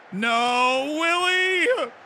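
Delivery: high, loud cry of despair; real groaning shout; anguished yell. Real, not acted. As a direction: howl at the missed chance. Player misses a chance.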